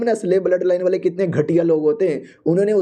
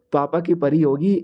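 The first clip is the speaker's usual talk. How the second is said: mocking aside; 3 semitones lower than usual. Hero's mocking inner thought.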